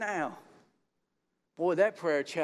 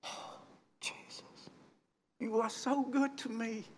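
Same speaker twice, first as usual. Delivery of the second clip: much softer, nearly whispered thanks; hushed prayer; 6 semitones higher, 4 dB quieter than usual. Retold or imitated. Preacher recalling his private thanks to Jesus, hushed and soft. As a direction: breathe it out in awe. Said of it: "and I'm like".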